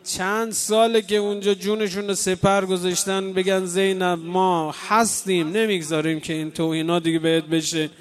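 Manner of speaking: full-voiced sermon plea; fervent preaching. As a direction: urge the crowd to pray through their tears. Preacher exhorts mourners to pray.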